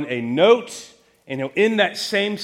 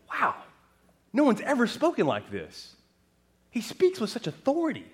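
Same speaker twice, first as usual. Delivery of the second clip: mild amazement; 6 semitones higher, 4 dB quieter than usual. Acted. Crowd voiced in amazement.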